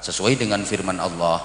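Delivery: low, soft, formal ceremony host; measured, hushed formal announcing in a low register; wedding emcee. Acted. Emcee addressing guests at a wedding reception, low solemn formality. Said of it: "kemudian M C-nya ngomong".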